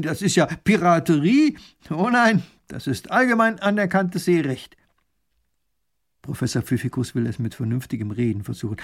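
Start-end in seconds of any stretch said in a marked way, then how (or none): 0.0-4.8 loud, high, outraged baron; indignant scolding. Acted. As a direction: rail at the pirate. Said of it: "schimpft Raffin". (empörtes Schimpfen, laut und hoch)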